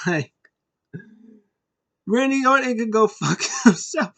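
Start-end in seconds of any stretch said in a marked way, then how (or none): 2.1-4.1 high, hammed-up witch voice with laughter; witch puppet. Abby Witch cursing Randy Orton, high mock witch voice.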